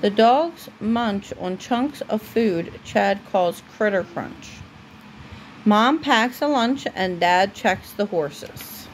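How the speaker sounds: steady storybook reading voice; reading to a child. Acted. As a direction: read it aloud for a little one at bedtime. Parent reads a story aloud to child.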